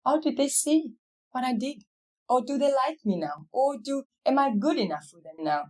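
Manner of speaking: retold worried wondering; anxious wondering.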